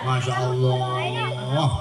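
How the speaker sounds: slow, drawn-out "Masya Allah"; slow awe. Acted. Fake lady slowly marvelling at the room. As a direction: stretch it out in slow wonder.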